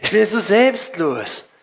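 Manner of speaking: slow, laughing mock self-praise; mock the selfless pose with a laugh; laughing mockery. Preacher mocking his son's show of selflessness, laughing. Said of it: "Nach außen sieht es toll aus".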